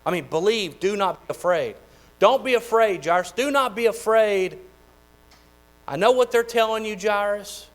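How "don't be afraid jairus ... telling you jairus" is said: fervent preaching. Acted. Preaching Jesus' words with full force.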